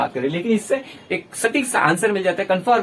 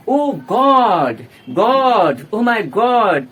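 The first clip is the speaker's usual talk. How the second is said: louder, rising "Oh my God"; excited exclamation; 5 dB louder, much slower than usual. Shown as a demonstration. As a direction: gasp it out in shock. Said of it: "इस प्रकार से भी". (ज़ोर से चौंककर "Oh my God")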